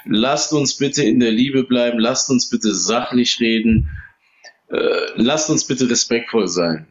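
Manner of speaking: slow, soothing appeal for calm; calming plea. Real, not acted. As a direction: settle the room down, slowly. Moderator calming heated debaters.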